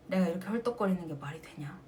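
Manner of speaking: fast whisper to herself; fast self-reproaching whisper; whispered self-scolding. Retold or imitated. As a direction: mutter it under your breath, ashamed.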